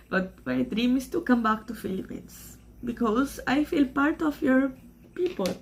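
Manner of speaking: emotional. Real, not acted. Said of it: "sorry for this part that I'm emotional".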